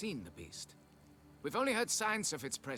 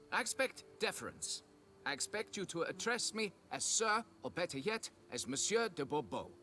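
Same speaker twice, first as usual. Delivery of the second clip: haughty demand; 5 semitones higher than usual. Acted. Haughty noble demands deference.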